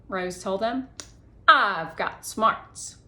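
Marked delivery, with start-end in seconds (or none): 1.5-3.0 smug brag. Acted. Girl bragging slowly.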